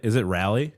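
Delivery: Raleigh said RAL-ee with a flat A; alternative pronunciation. Shown as a demonstration. Co-host checking how Raleigh is said, questioning the rally version. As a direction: ask "Raleigh" rhyming with rally. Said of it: "How are you pronouncing it?".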